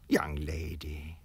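slow pleading whisper; soft whispered plea. A narrator's reading. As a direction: breathe her name as a last plea. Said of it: "and pleaded".

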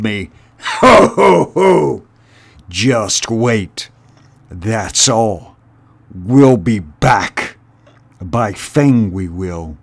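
sneering rat threatening the mice; menacing rat. Acted. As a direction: gloat like a cornered bully.

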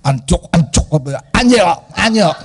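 "Antioch, Antioch," repeated with Filipino vowels, like AN-cho-ka AN-chok; Filipino pronunciation. Shown as a demonstration. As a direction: demo "Antioch" in a Filipino accent. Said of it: "my mouth has a Philippine accent".

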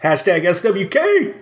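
mock battle cry, stretched out; hammed-up slogan call. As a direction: playfully call out the hashtag slowly. Mock rallying slogan called out.

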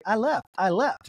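drawn-out mock Southern accent; Mary. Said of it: "doing her as a Southern lady".

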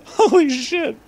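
surprised. Real, not acted. Reacting to the bad fanfic.

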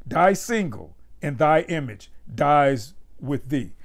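slow solemn poetry recital; poem reading. Acted. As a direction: read Shakespeare slowly, savoring each line. Reads sonnet three aloud.

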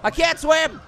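high, hammed-up cry of alarm; mock panic. Pear falling into water, mock panic. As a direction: wail as if falling in.

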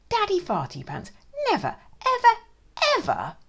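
never ever with a laugh; laughing emphasis. A narrator's reading. Narrator to children, laughing through never ever. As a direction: giggle through the evers.

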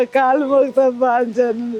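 slow, tearful begging with a sob; crying plea. Real, not acted. Home guard begging the chief minister for her job, crying. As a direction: plead through real tears.

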